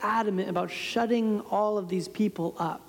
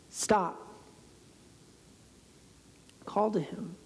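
soft command; 2 semitones lower, 7 dB quieter, slower than usual. Retold or imitated. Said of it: "But Jesus says".

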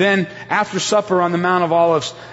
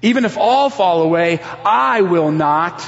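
defiant retort; 4 dB louder than usual. Retold or imitated. Peter retorts to Jesus, louder and insistent. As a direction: push back hard, refusing to accept it. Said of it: "Peter retorted".

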